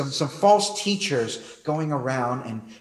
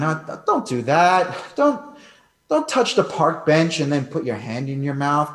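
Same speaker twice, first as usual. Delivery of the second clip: put-on mild exasperated warning to a toddler, a bit louder; mildly scolding parent; 6 dB louder than usual. Father telling his little daughter off, mild scolding. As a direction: gently chide a child, tired and patient. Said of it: "I have to say something like this to her".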